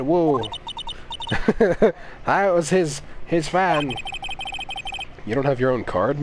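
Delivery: a lightly voiced huffing old woman; cranky old lady. Streamer voicing the old lady, lightly huffing. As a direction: puff out the words like a winded granny.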